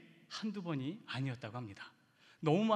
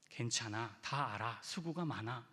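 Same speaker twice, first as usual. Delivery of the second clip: soft reassurance; 5 semitones lower than usual. Shown as a demonstration. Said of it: "상대를 인정해주는 말".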